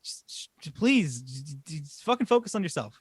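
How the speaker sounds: hushed false starts breaking into a mild mock plea; imitated pleading. Retelling the phone call between husband and wife, imitated pleading. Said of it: "his wife calls him and she's like".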